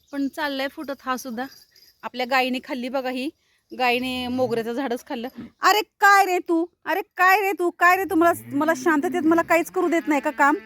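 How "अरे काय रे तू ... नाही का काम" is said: exasperated scolding. Real, not acted. Scolding the cow that ate the jasmine, loud and exasperated. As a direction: scold the cow for ruining your work.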